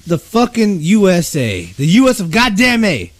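ranting. Real, not acted. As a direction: vent with mock fury. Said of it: "Let me get this vent out".

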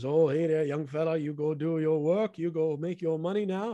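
put-on a light Korean-accented older man; lightly imitating an elderly Korean friend; Chan's Korean accent. Gym friend Chan greeting the young fella, lightly Korean-accented. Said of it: "I'm not making fun with the affectation".

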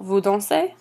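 last syllable of "dansez" lifted; question intonation. Shown as a demonstration. Teacher showing how to ask by intonation, rising on "dansez". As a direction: raise your voice at the end of "dansez". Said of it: "raise your voice at the end, the last syllable".

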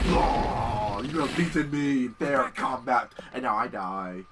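a mock death speech; lightly voiced dying villain. Voicing dying monster.

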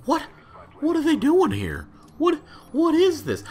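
high mock-confused bystander; mimicking gawkers. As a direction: play a clueless passer-by staring at the camera. Mimicking confused gawking onlookers.

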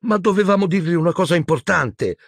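high, hesitant stammer; faltering girl. A narrator's reading. Hermione stalling under questioning, high faltering voice. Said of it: "balbettò Hermione".

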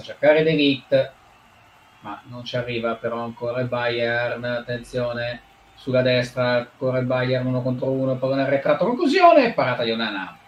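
lively Italian football commentary; play-by-play commentary. Acted. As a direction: call the match live. Mock live match commentary.

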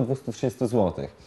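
normal talking voice

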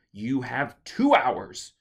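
loud, slow shout; shout through a door. Acted. Mother shouting through the shut door, loud and slow. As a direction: call it from behind the door. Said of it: "shouted from the other side".

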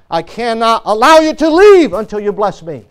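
preacher acting out a desperate refusal; begging. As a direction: build from restrained to insistent begging. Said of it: "Jacob does the same thing with God".

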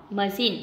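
machine with -CHINE stressed; stress on second syllable. Shown as a demonstration. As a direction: lean on the last syllable of "machine". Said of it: "đều có trọng âm một. Trừ".

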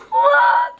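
high squeaky baffled "what?". Retold or imitated. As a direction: play the daughter's puzzled stare. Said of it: "mijn dochter kijkt me echt aan van".

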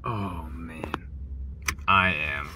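soft, low whisper; hushed whisper. Real, not acted. Fan in the crowd murmuring to the camera, hushed whisper. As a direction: breathe it out under your breath. Hushed moment after the kiss.

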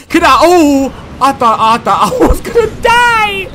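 high laughing yell of relief; laugh-scream like you barely survived; relieved laughing shout. Real, not acted. Near death, relieved laugh.

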